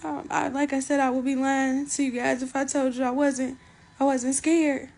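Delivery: holding back tears, sniffling; emotional. Real, not acted. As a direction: fight the tears while speaking. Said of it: "just emotional".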